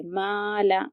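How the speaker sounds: माला with a thin, light "ma"; light mim. Shown as a demonstration. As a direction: keep माला light, no mouth filling. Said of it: "देखिए कि ये बारीक होता है".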